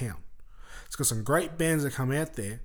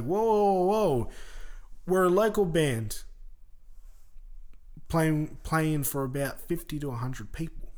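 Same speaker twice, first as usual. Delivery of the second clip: calling whoa; 3 semitones higher than usual. Retold or imitated. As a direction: pull a dreamer back to earth. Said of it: "but it's like".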